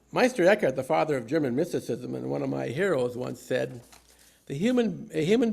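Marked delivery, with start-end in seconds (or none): 0.1-0.7 holy laughter. Real, not acted. Laugh after the joke.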